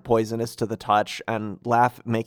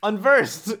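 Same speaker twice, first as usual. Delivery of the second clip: high-pitched echoing cry; mock alarm; 9 semitones higher than usual. Co-host joins in announcing enemies, high mock cry.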